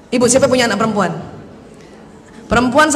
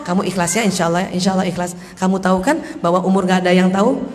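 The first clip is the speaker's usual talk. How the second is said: gentle counsel; 6 semitones lower, 4 dB quieter than usual. Acted. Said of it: "baru kita ngomong".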